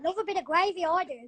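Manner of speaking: lightly put-on English accent; relishing it in a mock English bloke accent; the speaker's English accent. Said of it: "I'm good at an English accent".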